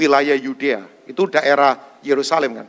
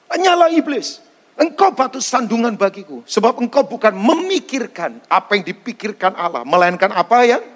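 higher, forceful scolding of a disciple; stern rebuke; 4 semitones higher than usual. Acted. Jesus rebuking Peter, higher and forceful. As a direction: drive the rebuke home hard. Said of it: "dan berkata kepada Petrus".

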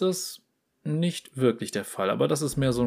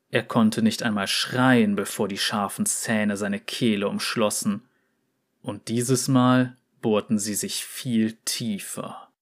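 story narration; 2 semitones lower than usual. A narrator's reading. Reads a fantasy story aloud.

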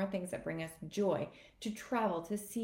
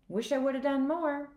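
put-on regretful older self; 6 semitones higher, 7 dB louder than usual. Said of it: "get to the end of my life thinking".

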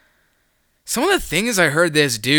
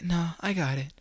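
hushed, higher-pitched imitation of a coworker; quiet, whispered; 6 semitones higher, 8 dB quieter than usual. Coworker turning down help in the heat, quiet and whispered. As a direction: softly wave off the offer, almost whispering. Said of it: "Like, quiet, like, whispered".

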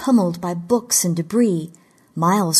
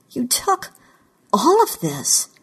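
higher-pitched accusation; accusing; 6 semitones higher than usual. A narrator's reading. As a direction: confront the thief with a pointed pause. Accusing captor of theft.

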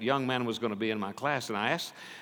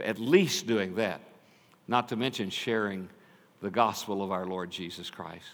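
normal talking voice

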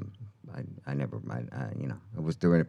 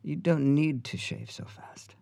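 breathy, slow mock Australian; high, hushed Australian impression, drawn out; Sam Neill; 8 semitones higher, 4 dB quieter, slower than usual. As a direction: softly coach in a bad Australian accent. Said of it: "This is a horrible Australian accent".

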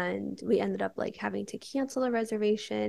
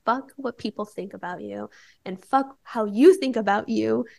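defiant outburst; 3 semitones higher, 10 dB louder than usual. Retold or imitated. Her realization, said defiantly.

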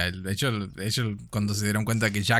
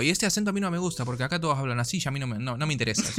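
Buenos Aires accent; 3 semitones higher, faster than usual. Shown as a demonstration. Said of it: "hablaría con este acento, loco".

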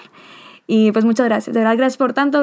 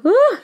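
overwhelmed cry; 12 semitones higher than usual. Real, not acted. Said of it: "Ya estoy llorando".

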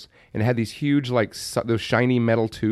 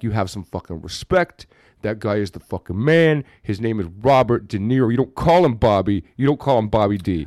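imitating angry friend; 3 semitones lower than usual. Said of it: "He'd always get mad at me".

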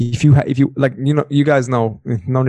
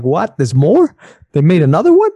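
incredulous; 4 semitones higher, 4 dB louder than usual. Retold or imitated. Acting out his incredulous reaction.

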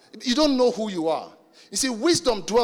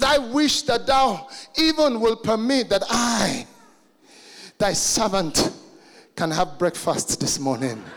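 mock archaic request; slower than usual. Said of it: "He says".

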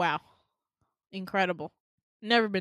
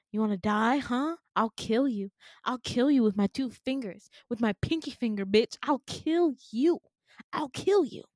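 mock menace, raised voice; retold threat; 4 dB louder than usual. Patient keeps talking to her, mock menacing threat. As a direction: threaten them in a half-serious rant.

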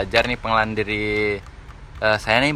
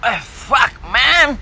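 much higher, excited praise for a buddy; playful swearing as a compliment; friendly hype; 12 semitones higher, 3 dB louder, much slower than usual. Retold or imitated. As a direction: cheer your mate on like a foreigner. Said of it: "itu sebuah apresiasi buat teman-teman".

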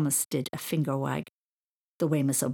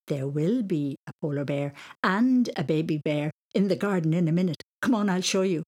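playful smiling; 3 dB louder than usual. Acted. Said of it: "with smiley eyes".

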